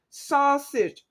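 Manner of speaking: "sausage" split into saus, age; syllable by syllable. Shown as a demonstration. Host testing the syllable count, "sausage" in two beats. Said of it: "Sausage is two".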